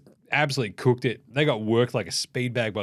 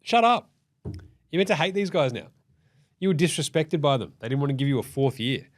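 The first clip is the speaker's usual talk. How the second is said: exasperated fan; 2 semitones higher than usual. Retold or imitated. Fan scolding Paul George for loving his old team, mock exasperation. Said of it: "It's like".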